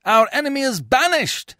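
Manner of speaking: fast, rising rejoicing; jubilant cry. Acted. Citizens rejoicing at the banishment, jubilant cry. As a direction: cheer the news. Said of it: "they all cry".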